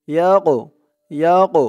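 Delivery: "ইয়াক" with a bouncing push on the final q; qalqalah on qaf. Shown as a demonstration. Teacher shows qalqalah, pushing the q in "ইয়াক". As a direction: push off the last consonant of "ইয়াক". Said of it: "এই কফটা কলকলার হরফ ধাক্কা দিয়ে পড়তে হবে".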